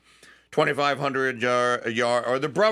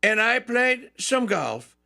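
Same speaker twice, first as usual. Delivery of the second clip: higher, slow mock Trump voice; imitating Trump; 7 semitones higher than usual. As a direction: lightly do Trump inviting Saquon. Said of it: "And he goes".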